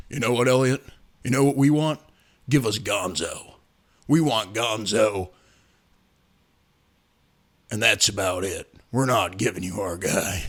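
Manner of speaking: a low, immovable no from the big boss; tough GM voice. Retold or imitated. Voicing Dan Morgan on phone.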